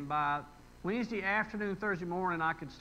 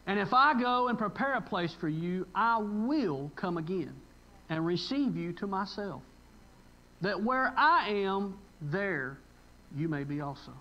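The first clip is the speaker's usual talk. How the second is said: loud slow proclamation fading at the end; building preaching climax; 4 dB louder than usual. Acted. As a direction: swell on where I am, then let it settle.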